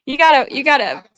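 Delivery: high, climbing into a laughing squeal; real helpless laughter. Real, not acted. Wife shoos husband's feet away, cracking up with laughter. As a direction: keep restarting as the giggles take over.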